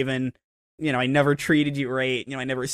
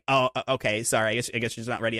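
mock dejected dad; 7 semitones lower, 8 dB quieter, faster than usual. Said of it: "he's like".

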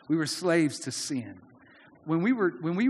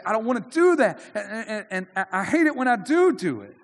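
frustrated believer; 4 semitones higher, 3 dB louder than usual. Retold or imitated. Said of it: "you say".

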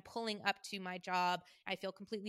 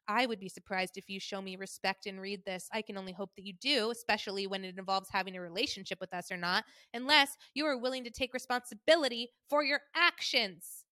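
mom's tone. Retold or imitated. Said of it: "this is how she talks".

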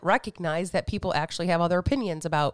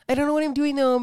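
higher mock panic; 7 semitones higher, 5 dB louder, faster than usual.

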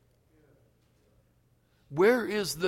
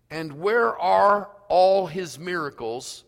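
Gideon's complaint; 3 semitones higher, 6 dB louder, slower than usual. Acted. Preacher voicing Gideon's complaint.

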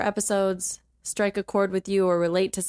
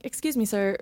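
retold disbelief; 4 semitones higher than usual. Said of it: "I'm like".

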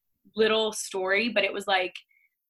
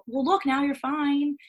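higher, louder, slow mock dismissal; mocking quote; 6 semitones higher, 6 dB louder, slower than usual. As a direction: drawl it out like a smug know-it-all.

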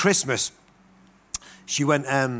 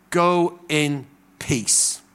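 slow gentle blessing; much slower than usual. Acted.

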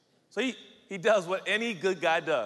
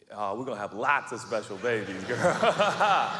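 playful, laughing boast; 4 semitones lower, 3 dB louder than usual. Acted. The speaker jokes flirtatiously with fiancée.

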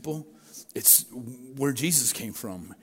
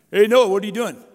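calling out; 6 semitones higher, 10 dB louder, faster than usual. Acted. Neighbor calls out to Noah.

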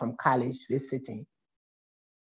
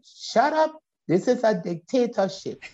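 mock dictator; 5 semitones higher than usual. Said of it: "I'm like".

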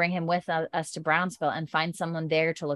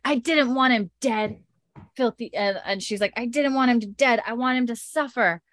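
mock yell; 4 semitones higher than usual. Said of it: "and then she's yelling".

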